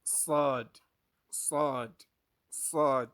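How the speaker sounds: "Sad" loud, heavy S and long vowel; teacher drills emphatic "Sad"; Arabic Saad drill. Shown as a demonstration. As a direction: punch each "Sad" separately. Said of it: "Let's pronounce them again".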